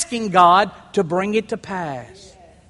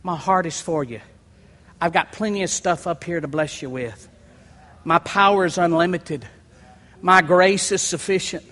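God speaking tenderly; 3 semitones lower than usual. Acted. Preacher voicing God speaking to his children, gentle. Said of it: "And he's saying".

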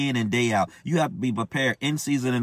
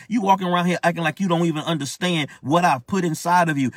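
higher-pitched, insistent scolding as God; God's stern rebuke; 3 semitones higher than usual. Acted. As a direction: drive each reproach home, pitched up. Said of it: "this is our God talking to me".

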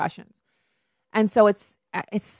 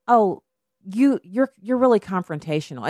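mock indignant reply; 3 semitones higher than usual. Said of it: "bring it up and say".

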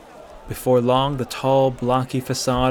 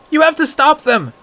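high, loud demand; desperate shout; 8 dB louder than usual. A narrator's reading. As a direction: plead with all you've got. Boy pleads with guards.

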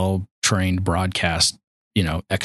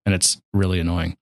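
normal talking voice

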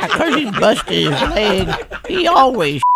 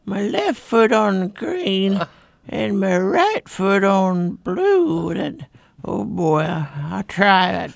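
put-on old person voice; 2 semitones higher than usual. Elderly player getting hurt.

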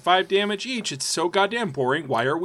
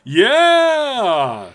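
higher, louder ghostly wail; 6 semitones higher, 5 dB louder than usual. Acted. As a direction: let out a spooky ghost cry. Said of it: "I dropped out of ghost voice".

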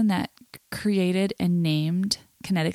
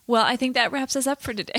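words strained by held-in giggles, about to crack; trying to get the line out before the laugh bursts; fighting back laughter; 4 semitones higher, faster than usual. Real, not acted. Host starting the outro, barely holding back laughter. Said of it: "I sound like I'm crying in the outro".

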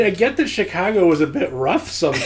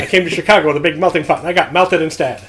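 put-on old movie voice; faster than usual. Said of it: "That rat-a-tat delivery".

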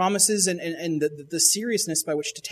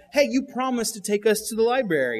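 mock angry kids; 6 semitones higher than usual. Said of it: "the kids are angry at their dad".

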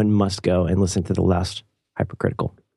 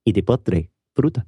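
Castilian Spanish accent. Shown as a demonstration. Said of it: "with a Castilian accent".

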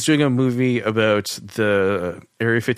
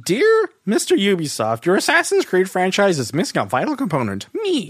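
mock formal letter; 9 semitones higher than usual. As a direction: read it like a stuffy formal letter.

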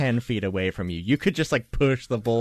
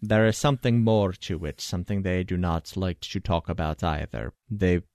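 measured expert; 2 semitones lower than usual. Acted. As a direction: explain it formally, with careful pauses. Voices the expert on the Fae.

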